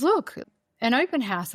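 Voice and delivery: high excited call, look; pointing it out eagerly; husband spotting the open house, excited. Retold or imitated.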